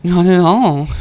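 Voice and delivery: breathless, high and loud between pants; out of breath from running; panting. A narrator's reading. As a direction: gasp the words out, winded. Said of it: "Every word is punctuated with a pant".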